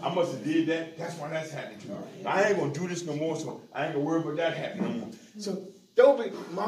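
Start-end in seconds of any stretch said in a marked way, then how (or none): 0.0-5.1 muttered inner thoughts. Retold or imitated. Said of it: "I said".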